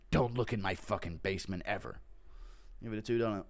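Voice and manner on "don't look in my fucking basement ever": Chandler warning. Acted. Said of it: "Chandler's Enderman farm".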